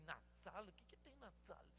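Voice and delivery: soft whispered question. Retold or imitated. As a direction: whisper it so the boy won't hear. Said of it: "Tem que falar baixinho?".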